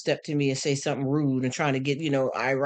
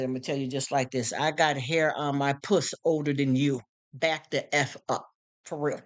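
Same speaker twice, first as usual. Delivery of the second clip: slow blunt warning; 2 semitones lower than usual. Retold or imitated. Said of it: "I said".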